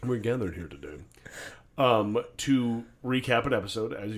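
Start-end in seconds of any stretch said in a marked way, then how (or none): 0.0-1.0 officiant voice. Acted. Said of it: "Are you about to do my wedding ceremony".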